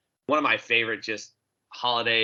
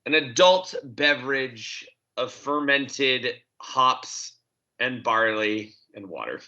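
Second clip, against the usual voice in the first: slow, mock-delicate euphemism; slowed, mock-polite phrasing; delicately; 2 semitones higher, slower than usual. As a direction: tiptoe around the word beer. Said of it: "how do I say it delicately".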